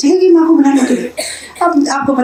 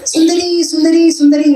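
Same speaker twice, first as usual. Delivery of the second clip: calling her name across the house, higher; 5 semitones higher than usual. Acted. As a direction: call out for Sundari, raised pitch. Krishna calls Sundari from outside. (ऊँची आवाज़ में पुकारना)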